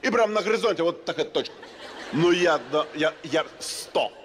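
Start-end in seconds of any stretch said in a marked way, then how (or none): none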